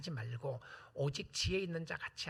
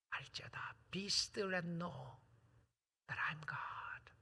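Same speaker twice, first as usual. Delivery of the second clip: meditative scripture; 5 dB quieter, much slower than usual. Real, not acted.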